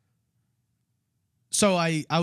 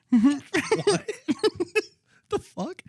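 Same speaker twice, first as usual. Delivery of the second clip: mock shocked; slower than usual. Waitress baffled by random order, mock shocked. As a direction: sound totally caught off guard. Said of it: "And she was like".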